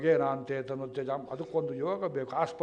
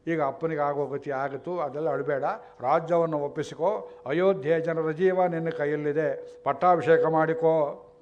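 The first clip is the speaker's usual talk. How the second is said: mother addressing son; 6 dB louder than usual. Acted. Mother Kaikeyi addresses son Bharata.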